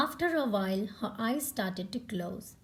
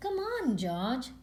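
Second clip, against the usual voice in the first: eager call; 3 semitones higher than usual. Acted. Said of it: "shouted Peppa".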